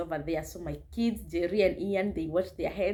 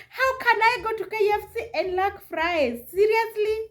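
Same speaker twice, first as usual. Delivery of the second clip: high-pitched, exasperated whine of disbelief; hammed-up high indignation; mock indignation; 12 semitones higher than usual. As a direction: imitate an outraged kid, pitched way up. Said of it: "Because Shiro was mad".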